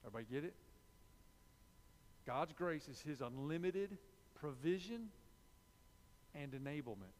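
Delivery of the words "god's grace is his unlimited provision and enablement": slow repeat. Shown as a demonstration. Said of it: "I'll say it again".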